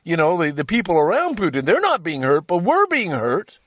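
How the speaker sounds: a lightly voiced angry Russian man asking why; aggrieved Russian citizen. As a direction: complain like a citizen hurt by sanctions.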